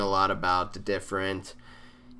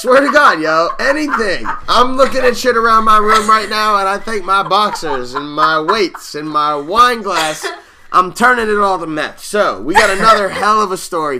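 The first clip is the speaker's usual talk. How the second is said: chirpy TV chef; 9 semitones higher, 10 dB louder than usual. Acted. Host opening the Jolly Old Meth bit as a chirpy chef. Hosting a cooking-show parody.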